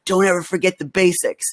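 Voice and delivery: put-on Southern accent. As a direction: lightly mimic the mentor's Southern accent. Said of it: "he had this, like, Southern accent".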